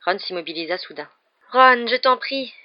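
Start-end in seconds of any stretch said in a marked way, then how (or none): 1.5-2.5 murmured plea. A narrator's reading. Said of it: "murmura Hermione".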